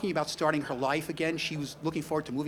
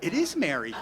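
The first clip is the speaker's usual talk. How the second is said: laughing realization; 2 semitones higher, 4 dB louder than usual. Retold or imitated. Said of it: "And I went".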